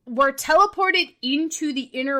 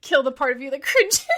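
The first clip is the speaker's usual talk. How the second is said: amused self-command with a laugh; laughing mantra; 3 semitones higher, faster than usual. Real, not acted. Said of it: "I'm like".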